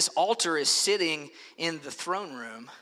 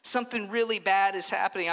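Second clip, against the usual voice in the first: mourner's cry; 5 semitones higher than usual. Acted. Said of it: "they would cry out".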